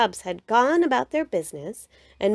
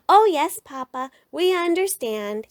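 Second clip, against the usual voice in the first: eager cubs; 7 semitones higher than usual. A narrator's reading. Cubs answering Papa.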